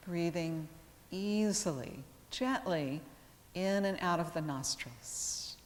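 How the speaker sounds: calm yoga teacher with long, restful pauses; guided meditation. Real, not acted. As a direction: guide them gently into relaxation, unhurried, letting each phrase settle. Leads yoga relaxation.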